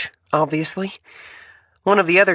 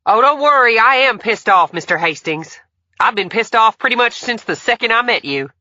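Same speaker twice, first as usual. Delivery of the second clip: much higher, very loud furious shout; angry yell; 8 dB louder than usual. A narrator's reading. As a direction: yell it back at the rich man. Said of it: "Emily yelled".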